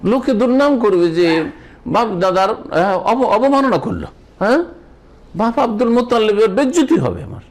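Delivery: a lightly voiced plea not to shame his forefathers; Abu Talib's pleading. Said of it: "Abu Taleb বলতো যে".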